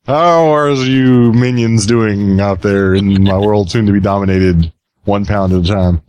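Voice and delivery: slow, gloating evil overlord; mock-sinister villain welcome; unhinged villain. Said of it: "the evil, maniacal laughing speaker".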